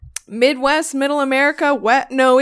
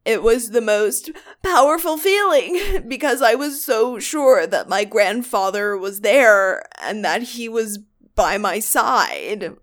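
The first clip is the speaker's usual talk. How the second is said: put-on retelling in a light California accent; dreamy West Coast lilt, lightly done. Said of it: "this accent".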